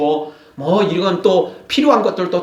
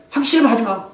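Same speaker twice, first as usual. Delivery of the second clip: mock angry outburst; 3 semitones higher, faster than usual. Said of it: "우리는 화가 나면 이제 그렇게 나오잖아요".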